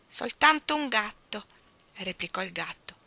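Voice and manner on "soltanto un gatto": cat voice. A narrator's reading. Cat speaks in cat voice.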